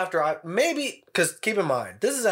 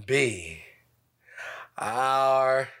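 bad French accent; much slower than usual. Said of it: "with this really bad French accent".

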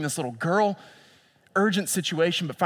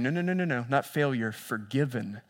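reassuring; 2 semitones lower, 3 dB quieter than usual. Acted. Jesus voiced gently reassuring.

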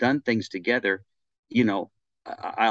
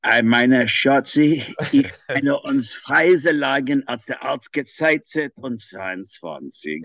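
mock-romantic gibberish in a heavy German accent; thick German accent; 4 semitones higher, 4 dB louder, slower than usual. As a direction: fake German, barked out loud. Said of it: "thick German accent".

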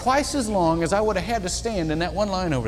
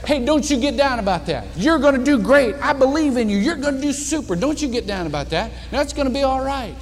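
hearty encouragement; 5 semitones higher than usual. Retold or imitated. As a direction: pump him up like a proud coach. Cafeteria man encouraging a student.

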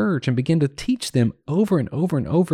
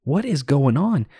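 imagined reproach, pitched a little higher; mild mentor's scolding; 4 semitones higher than usual. Acted. Mentor writing to a student who abandoned the truths, mildly scolding. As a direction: lightly act out a mentor demanding answers. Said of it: "scolding you".

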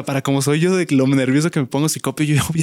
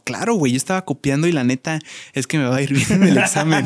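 laughing through the confession; a cheeky, laughing brag; laughing shamelessly. Retold or imitated. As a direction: chuckle it out, shameless and proud. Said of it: "descaradamente riéndose me dijo".

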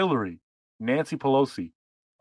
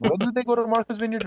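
much higher, mock innocent asking; sarcastic question; 11 semitones higher than usual. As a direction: ask it like you truly don't know.

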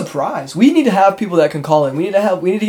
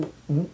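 imitated hiccup; 11 dB quieter than usual. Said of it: "just hiccuping".

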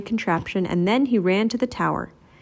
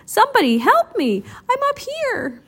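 yelling for help; 13 semitones higher than usual. A narrator's reading. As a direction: call out desperately from the tower. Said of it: "they heard someone yelling".

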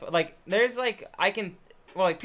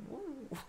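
soft, higher-pitched "woo"; fly take-off whoosh; 6 semitones higher, 15 dB quieter than usual. Retold or imitated. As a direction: imitate a fly zipping away softly. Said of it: "they go".

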